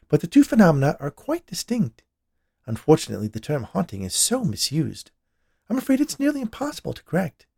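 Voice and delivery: high, emphatic psychic voice; explaining medium. A narrator's reading. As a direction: lecture them as the spirit expert. Medium explains apparitions to couple.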